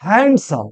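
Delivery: হ্যান্ডসাম with the d sounded, "hand-sam"; mispronounced handsome. Shown as a demonstration. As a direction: say হ্যান্ডসাম as spelled, "HAND-sum". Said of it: "প্রায় বলি, কিন্তু না". (হ্যান্ডসাম-এর ভুল উচ্চারণ, ড সহ)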